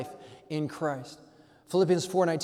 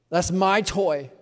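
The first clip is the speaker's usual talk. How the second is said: slow, louder, whiny possessive; sulky kid; 7 dB louder, much slower than usual. Retold or imitated. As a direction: drag out my toy like a child. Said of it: "and you're like".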